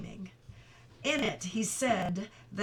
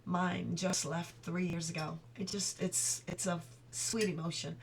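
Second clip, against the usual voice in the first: soft, moved voice about her late mother; emotional; 2 semitones lower, 4 dB quieter than usual. Real, not acted. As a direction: speak softly, holding back tears. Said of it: "I'm getting emotional".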